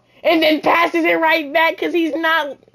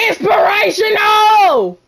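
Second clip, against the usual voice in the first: loud boast, a little higher; excited shout; 3 semitones higher, 4 dB louder than usual. Real, not acted. Gamer boasting after a score, loud shout. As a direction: shout it like a victory cry.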